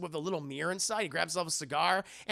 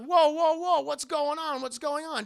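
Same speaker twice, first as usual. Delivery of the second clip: high, loud mock alarm; Doctor Seward; 9 semitones higher, 7 dB louder than usual. Seward reacts to Dracula's outburst, high mock alarm. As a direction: call out to break up a fight. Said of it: "Doctor Seward's like".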